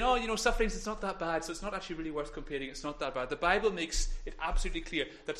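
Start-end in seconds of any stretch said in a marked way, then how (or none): 0.0-3.3 dismissive mock voice. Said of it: "He's not saying".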